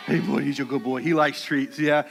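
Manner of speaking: low, fond dog talk; fussing over dog. Real, not acted.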